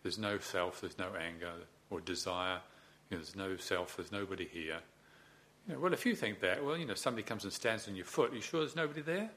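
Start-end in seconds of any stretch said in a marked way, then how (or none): 0.0-4.8 quick dismissal. Shown as a demonstration. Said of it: "not being too quick to just say".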